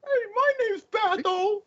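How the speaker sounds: squeaky high mock character voice. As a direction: pipe it up high, mocking her. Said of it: "mock voicing the character".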